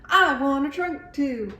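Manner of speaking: put-on high, eager childlike plea; eager me too. A narrator's reading. Iguana begging to copy Elephant, eager high plea. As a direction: beg like an excited little kid.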